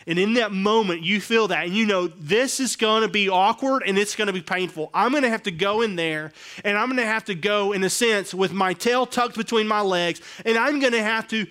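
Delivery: high, loud, pressing inner voice; fired-up imagined confession. Retold or imitated. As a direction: preach the dread of owning up. Voicing the repentant boss.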